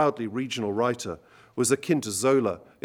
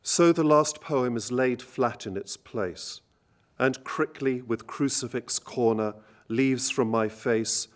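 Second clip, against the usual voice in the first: poetry reading. Acted. Lecturer reading Gurney's Poem for End to the audience, measured and grave. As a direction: read it gently and deliberately, phrase by phrase.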